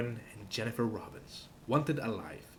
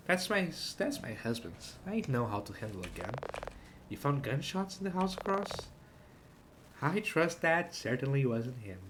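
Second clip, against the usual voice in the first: voicing the woman; 3 semitones higher than usual. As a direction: play the wife. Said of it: "I don't wanna voice her".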